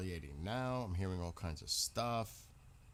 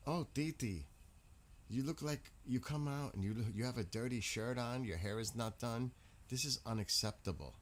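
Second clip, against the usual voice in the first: mock snooty cousin; 2 semitones higher than usual. Cousin voiced in family story.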